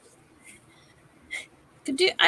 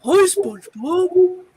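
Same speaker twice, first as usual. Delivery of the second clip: cartoon voice impression; 5 semitones higher, 7 dB louder, much slower than usual. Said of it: "like, Mister Krabs".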